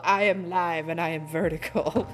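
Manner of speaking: mock existential. Streamer echoing own words to viewers, mock existential. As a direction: declare it low, like a deep truth. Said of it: "That sounds very existential".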